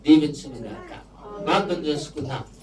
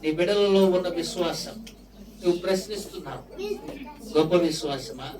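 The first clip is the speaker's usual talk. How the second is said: prayer. Acted. Pastor leading the congregation in prayer, solemn prayer voice.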